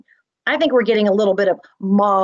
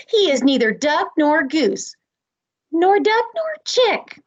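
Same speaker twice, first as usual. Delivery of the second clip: barnyard bird voice; 5 semitones higher than usual. Acted. Teacher voices barnyard animals in play.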